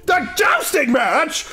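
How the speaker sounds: put-on shrill girl shout, high pitched; high squeaky shout. Melody shouting in story.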